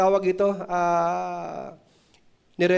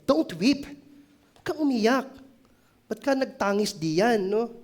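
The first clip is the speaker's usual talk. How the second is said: higher, pleading crowd voice; crowd comforting; 4 semitones higher than usual. Retold or imitated. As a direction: coax him gently to stop crying. Crowd comforting weeping violinist. (mataas na boses ng mga taong nag-aalo)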